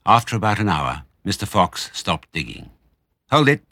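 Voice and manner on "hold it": loud sudden stop order; sharp command. A narrator's reading. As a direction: call a halt. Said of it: "he said".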